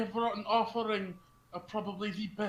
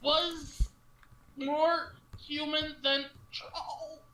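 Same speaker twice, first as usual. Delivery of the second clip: laughing; 9 semitones higher, much slower than usual. Real, not acted. Player insists while laughing.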